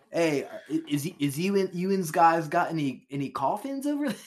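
lightly voiced Baltimore accent. Trying a Baltimore accent for the coffin question. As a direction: ask in a slight Baltimore accent. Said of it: "Baltimore up the accent".

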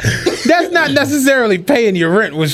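laughing through a mock-exasperated comeback; laughing retort. Teasing his friend about scratch-offs, laughing. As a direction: chuckle while pointing out the flaw. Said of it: "And I'm like".

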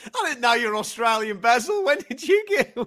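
teasing Australian matchmaker, rising into laughter; light Australian accent, breaking into a laugh; mock Australian accent. Mick actor teasing the wrong accent.

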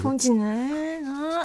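drawn-out Akita dialect phrase. Shown as a demonstration. Echoing the word for lonely to co-host, slow Akita dialect. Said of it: "秋田弁でもね".

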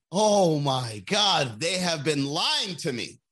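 very slow, drawn-out mock awe; mock revelation. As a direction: stretch it out like a jaw-dropping discovery. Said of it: "and you're like".

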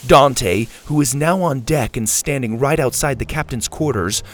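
energetic adventure storyteller; story narration. A narrator's reading. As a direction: keep the chase moving. Narrates the captain's reaction.

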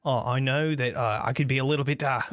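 lightly voiced effusive tavern patron; amazed, apologetic patron. Game master voices Rictavio apologizing.

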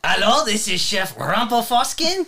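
a touch of a comic French chef; mock French chef. Chef introducing himself to the show, light French accent. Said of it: "You gotta keep the accent".

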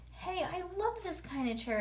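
put-on high-pitched excited kid; excited storybook exclamation; real excited. A narrator's reading. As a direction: squeal it lightly, like a thrilled child. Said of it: "I said, real excited".

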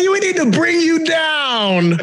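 slow shout. Retold or imitated. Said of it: "and you say".

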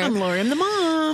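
breathy show-intro whisper. Acted. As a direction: whisper it like a secret. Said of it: "Witch Whispers".

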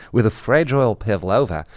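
lightly put-on Australian accent; imitation Australian vowels. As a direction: slip into a mock Aussie accent. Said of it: "read it in an Australian accent".

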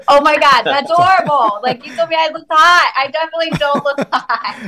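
high, dismayed complaint; horrified at her own photos; disgusted. Retold or imitated. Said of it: "I'd be like".

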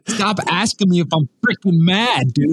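mock annoyed. Mock-annoyed outburst at wife.

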